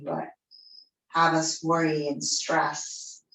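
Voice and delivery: calm yoga-teacher voice with long pauses between phrases; guided meditation. Real, not acted. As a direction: guide them gently into the breath, unhurried.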